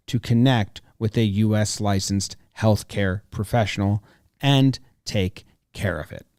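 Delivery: upbeat sponsor read. Acted. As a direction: sell it like a radio ad. Host reads sponsor ad.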